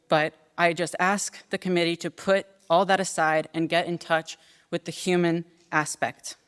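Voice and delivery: measured, earnest prepared statement; formal testimony. Acted. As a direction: read a prepared plea to a committee, pausing between points. Reads prepared testimony to committee.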